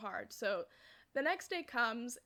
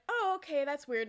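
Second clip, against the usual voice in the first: high, louder "oh" of puzzlement; taken-aback reaction; 4 semitones higher, 7 dB louder than usual. Retold or imitated. Family watches the casserole being made, puzzled and taken aback. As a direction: imitate someone politely thrown.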